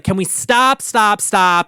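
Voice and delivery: half-yelled, stern retold demand; mild mock yell. A pop star halting rehearsal, imitated in a mild mock yell. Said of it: "she goes to yell".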